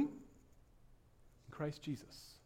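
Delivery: hushed, slow emphatic answer; slow whisper. Shown as a demonstration. Preacher answering his own question in a slow whisper. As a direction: whisper it slowly, drawing out Christ Jesus. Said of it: "In whom?".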